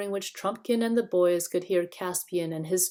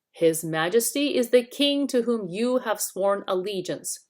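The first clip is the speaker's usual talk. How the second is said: stern; 3 semitones higher, 4 dB louder than usual. Acted. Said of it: "said Truffle Hunter sternly".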